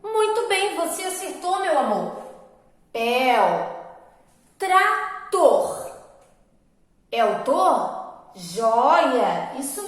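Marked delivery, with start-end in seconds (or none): 2.9-3.8 "Pel" drawn out and louder; strong syllable alone. Shown as a demonstration. Teacher confirming the strongest syllable to pupils, emphatic drawn-out syllable. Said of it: "Onde está a sílaba mais forte". 4.6-5.9 "Trator" split in two, high and emphatic; syllable by syllable. Shown as a demonstration. Teacher giving pupils the next word, emphatic split syllables.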